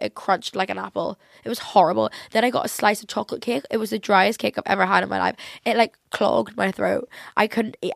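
ordinary delivery

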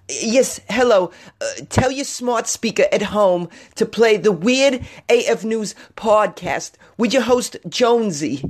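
high, slow, stilted character voice; put-on announcer voice. Host plugging his podcast for smart speakers, high put-on announcer voice. Puts on an intro voice.

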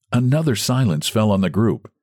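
usual speaking voice

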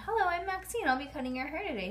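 high, friendly greeting; real nice. A narrator's reading. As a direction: greet a customer sweetly. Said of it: "she said real nice".

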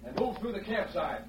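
distant voices across camp; far off. Acted. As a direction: heard from a distance. Posse heard from hiding place.

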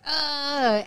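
drawn-out groan of dismay; mock-appalled groan; disgusted ugh. Reacting to old photos.

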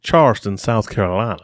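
genteel South Carolina accent; regal Southern accent. Shown as a demonstration. Showing how Charleston sounds, regal South Carolina accent. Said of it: "South Carolina's a little more regal".

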